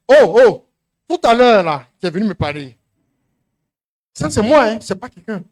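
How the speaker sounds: loud accusing call across the yard; loud challenge. Retold or imitated. Preacher retelling how he hailed the woman, loud accusing call. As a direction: call her out loudly.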